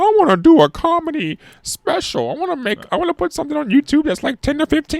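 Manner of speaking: very high, cartoonish puppet voice. Imitating own past words about wanting a comedy special: Muppet voice. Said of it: "You sound like an A A Muppet".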